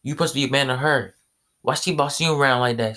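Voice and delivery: mock-outraged son scolding his father; indignant outburst. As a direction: push the words out fast, fed up with him. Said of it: "He said".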